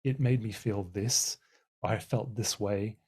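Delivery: gentle raising. Shown as a demonstration. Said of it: "a really helpful way is to say".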